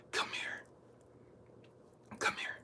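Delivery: hushed, faint come here, calling from afar; soft beckoning call. Retold or imitated. Preacher voicing God's gentle call to the lost, faint and hushed. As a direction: quietly beckon someone to come near.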